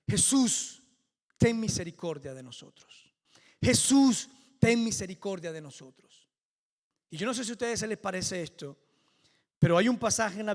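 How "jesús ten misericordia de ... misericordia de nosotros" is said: calls of Jesús pitched up and loud, the pleas dropping back; crying out to Jesus. Retold or imitated. Lepers calling to Jesus from afar, loud pleading cries. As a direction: cry out from afar for mercy. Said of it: "Comienzan a gritarle".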